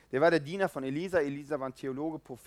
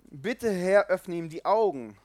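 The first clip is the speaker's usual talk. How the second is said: prayer; 4 semitones higher, 7 dB louder, slower than usual. A narrator's reading. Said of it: "Dann betete Elisa".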